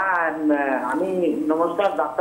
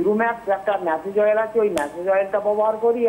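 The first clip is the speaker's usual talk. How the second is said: raised, higher-pitched voice; speaking up; 4 semitones higher than usual. Real, not acted. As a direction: say it up so they can hear. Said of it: "একটু জোরে বলুন".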